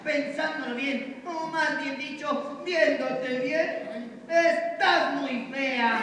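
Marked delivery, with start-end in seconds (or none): 4.3-6.0 slow, laughing tease. Acted. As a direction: drag it out, then laugh. Teasing insult with laugh.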